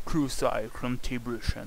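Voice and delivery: slow, in a jokey English accent. Shown as a demonstration. Gamer jokes to viewers in a mock English accent. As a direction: say it like an Englishman would, slowly. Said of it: "moi et mon accent anglais".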